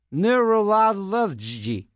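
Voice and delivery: neurology sounded out very slowly, syllable by syllable; slow careful try. Shown as a demonstration. Struggling to say a hard word, sounding out neurology slowly. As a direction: stretch out neurology, working hard to get it right. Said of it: "Can't say neurolo".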